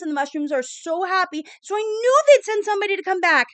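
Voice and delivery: put-on high, loud, eager child rattling on; a little girl who can't contain her joy; excited babbling. Little girl bragging to her mom that help came, excitedly high. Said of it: "And she's babbling, and she's excited".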